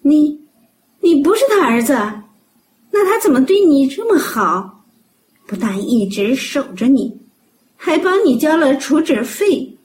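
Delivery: high-pitched incredulous questioning; stammer, then question in amazement, pitch way up; astonished doctor. Acted. Doctor learns he isn't her son. (医生惊讶地高声追问)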